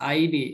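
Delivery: "আইনি" with an ai glide; pronounced "আইনি". Shown as a demonstration. Teacher recalling the dual ending, pronouncing "আইনি" as ai-ni. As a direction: sound "আইনি" out as ai-ni. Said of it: "উচ্চারণ ছিল".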